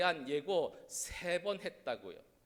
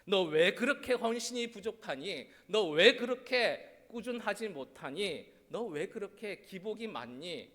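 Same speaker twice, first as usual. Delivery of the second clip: mock scolding; 2 semitones higher, 6 dB louder than usual. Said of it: "제자들을 야단치실 때".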